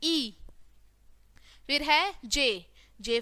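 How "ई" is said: ई as an isolated "ee" vowel; letter sound demo. Shown as a demonstration. Teacher showing the sound in igloo, letter sound demo. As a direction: sound out ई on its own. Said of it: "क्या बोलेंगे".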